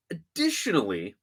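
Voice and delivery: a sudden whisper; whispered aside. Real, not acted. Podcaster drops to a whisper before his next point. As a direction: breathe "Additionally" as a hushed aside.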